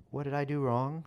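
dumped witch, a touch of despair; hurt question. A narrator's reading. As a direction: ask as if the floor fell away.

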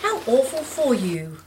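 gentle, spontaneous sympathy; compassionate. A narrator's reading. Jess hearing of the intruder's hard luck, compassionate. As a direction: let sympathy slip out. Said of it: "with compassion".

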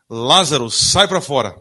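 preacher voicing Jesus calling Lazarus from the tomb; commanding call. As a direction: call him out with authority. Jesus commands the dead man.

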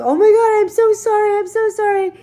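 high-pitched mock wail of apology; imitating frantic neighbors in a high voice; apologetic neighbors. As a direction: call out a gushing, repeated apology. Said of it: "my neighbors are downstairs going".

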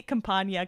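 Campana said with a ny glide, cam-PAHN-ya; Spanish ny sound. Shown as a demonstration. Host preferring this Campana, said with ny sound. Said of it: "it just sounds better".

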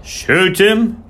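high, loud, outraged echo; about to explode on the question; explosive disbelief. A narrator's reading. Groom hears vet would shoot horse, explosively incredulous. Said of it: "looked as if he was going to explode".

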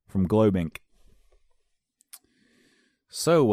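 mildly hammed-up adult faking skater talk; undercover skater voice. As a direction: blend in as a fellow youth, overdoing it. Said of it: "I'm gonna talk when I go undercover".

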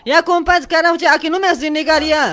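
mildly indignant comeback; exasperated. Acted. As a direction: argue back, fed up with the nagging. Acted quarrel over unpaid loan.

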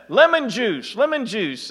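lemon juice called out high; retold chef yelling across the kitchen, mildly shouted; mock yell. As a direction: call it across the room, half-shouted. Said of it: "He yelled across".

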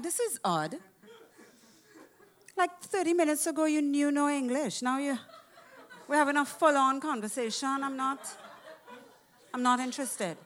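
high, laughing mock disbelief; sarcastic. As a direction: tease her with a laugh. Mocking the lady, laughing.

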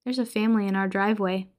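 offhand and quick; matter-of-fact; very casual. Retold or imitated. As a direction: drop it like it's nothing. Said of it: "very casually says".

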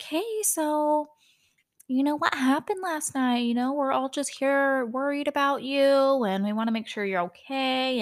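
imitated calm, soothing voice, pitched high at first; Garcelle. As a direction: coax gently, easing down from a high start. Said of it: "Garcelle's speaking very calm and very soft".

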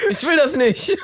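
high plea cracking into laughter; laughing exclamation. Pretend. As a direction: cry it out high while losing it. Joke answer, breaking into laughter.

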